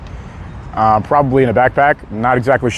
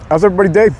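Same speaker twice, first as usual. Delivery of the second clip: near voice crack, a bit higher; voice almost cracking; 4 semitones higher, faster than usual. Real, not acted. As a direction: let the voice nearly crack. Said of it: "almost had a voice crack".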